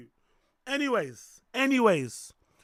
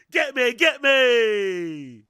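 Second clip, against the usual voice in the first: taunting shout; 5 dB louder, much slower than usual. Acted. Taunting chat.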